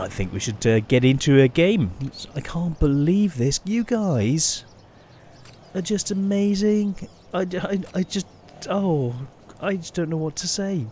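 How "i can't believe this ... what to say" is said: overwhelmed. Real, not acted. Overwhelmed by viewers' gifted planes.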